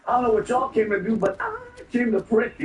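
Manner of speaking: a light take on a fiery church preacher. Retold or imitated. Mocking a candidate who sounds like a preacher, lightly voiced. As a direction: lightly preach it like Arsenio's pastor character. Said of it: "she sounded like ... Arsenio Hall, when he's a preacher".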